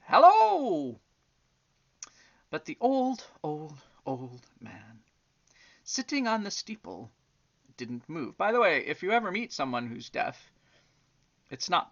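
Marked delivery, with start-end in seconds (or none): 0.1-1.0 high, loud call across a distance; shouting hello. Acted. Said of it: "and shouted". 2.5-8.4 put-on gentle storybook reading for children; story narration. A narrator's reading. Reads a bedtime story aloud.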